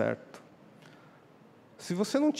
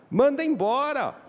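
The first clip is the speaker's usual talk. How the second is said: high, loud, slow demand; insistent demand; 11 semitones higher, 5 dB louder than usual. Acted. Disciples demanding Jesus send the woman away, loud and insistent.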